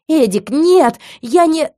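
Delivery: high, loud terrified cry; panicked scream. Acted. Heroine pinned down, terrified high scream. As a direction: scream for him to stop.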